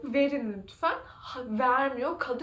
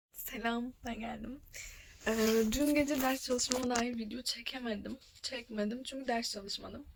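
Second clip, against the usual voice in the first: subdued and much softer, drained of energy; low mood; 6 dB quieter than usual. Real, not acted. Vlogger telling viewers about her failed exam, dejected. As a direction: speak as if worn out after a night of crying. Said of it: "İşte modum düşük, enerjim yok".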